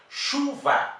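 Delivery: teacher feigns a surprised take; mock surprise. Shown as a demonstration. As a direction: play-act confusion at Chuva. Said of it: "parece que deu uma pequena confusão".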